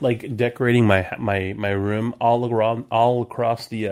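words slurring after whiskey. Real, not acted. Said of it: "I'm slurring so bad".

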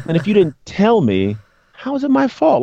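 amused protest. Retold or imitated. Laughing indignant retelling.

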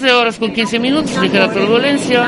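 jokey captain speaking over the intercom; laughing through a mock cabin announcement; pilot PA announcement. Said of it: "con una lejanía así de".

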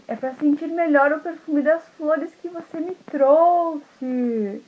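slow, smooth cooing; sly disguised wolf. Acted. Wolf as grandma explaining the big nose, slow and smooth. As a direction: purr the answer slowly. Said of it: "ele falou assim".

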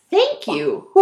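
high, loud grateful ghoul. Acted. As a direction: cry out thanks like a ghoul. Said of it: "cried the ghoul".

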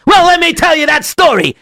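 high, loud burst of eagerness; suddenly wide awake. Acted. Storyteller snaps awake before his audience, loud and eager. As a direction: jolt awake and launch into it. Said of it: "he suddenly woke up".

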